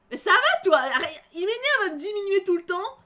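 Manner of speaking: fired-up defensive rant; indignant outburst. Real, not acted. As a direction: snap back at him in disbelief. Indignant at the character's put-down.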